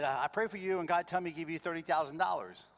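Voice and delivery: Charlie's voice. Retold or imitated. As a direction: play the calm friend on the phone. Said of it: "Charlie's Korean".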